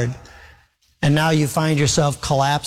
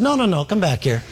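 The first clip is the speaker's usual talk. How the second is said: laughing; 2 semitones higher than usual. Acted. Punchline of the contract story.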